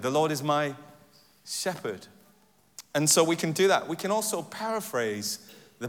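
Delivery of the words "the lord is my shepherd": brief pause, then shepherd set apart; wait, then place shepherd alone; stress on shepherd. Shown as a demonstration. Preacher emphasizing different words in a verse, stress on shepherd. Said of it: "emphasizing different words in a verse".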